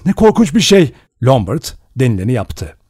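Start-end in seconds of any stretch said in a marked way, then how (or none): 0.1-0.9 loud, much higher, horrified; horrified cry. A narrator's reading. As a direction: cry out in horror. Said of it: "diye haykırdı Vera". (dehşet içinde haykırış)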